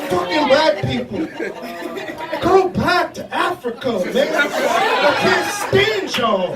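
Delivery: racist white man. Pretend. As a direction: sneer like a bigot from Mississippi. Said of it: "a racist white man from Mississippi".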